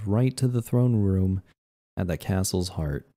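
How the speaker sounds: measured document read-aloud. Acted. Player reading a castle floor plan to viewers, read-aloud. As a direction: read it out like a narrated report.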